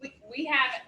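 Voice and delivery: talking with a mouth full; words round a bite of food. Real, not acted. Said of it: "with my mouth full".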